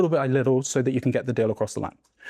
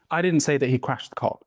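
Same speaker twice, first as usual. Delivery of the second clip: didnt punched, the rest of the line even; stress on DIDN'T. Shown as a demonstration. Coach shows students how stress shifts meaning. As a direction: lean hard on didnt. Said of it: "If you emphasize different words".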